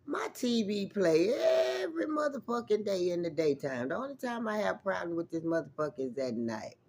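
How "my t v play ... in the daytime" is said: whisper. Real, not acted. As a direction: whisper it like a secret. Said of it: "I was like".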